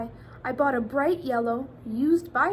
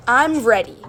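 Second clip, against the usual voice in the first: eager; 11 dB louder than usual. Acted. Eager answer to pilot.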